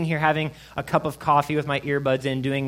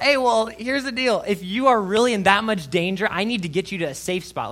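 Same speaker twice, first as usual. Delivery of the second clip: high, loud retold panic; urgent, hammed-up alarm, settling by the end; freaking out; 6 semitones higher, 4 dB louder than usual. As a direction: take charge while freaking out. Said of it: "I was freaking out".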